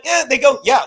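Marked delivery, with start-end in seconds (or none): 0.0-0.2 imitating a noncommittal reply; a lukewarm shrug of a sound; half-hearted eh. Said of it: "they don't go like". 0.6-0.8 imitating an obvious, assured yes; matter-of-fact yeah. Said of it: "like, it's common sense".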